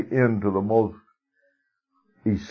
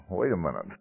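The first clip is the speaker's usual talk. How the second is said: softer, hushed mock surprise on Wait a minute; a quiet taken-aback catch of breath; startled; 7 dB quieter, faster than usual. Woman at the well realizing he's a prophet, quietly startled. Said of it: "she was a little startled".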